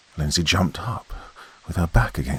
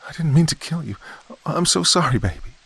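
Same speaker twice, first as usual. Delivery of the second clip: much higher, frantic pleading scream; screaming apology; 11 semitones higher than usual. A narrator's reading. Wife begging her husband's ghost for forgiveness, screaming. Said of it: "Lindsay screamed at the apparition".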